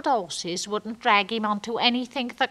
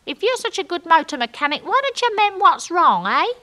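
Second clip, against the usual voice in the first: sharp retort; 8 semitones higher, 6 dB louder than usual. Retold or imitated. Retort shouted down at Norm.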